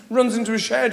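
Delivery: usual speaking voice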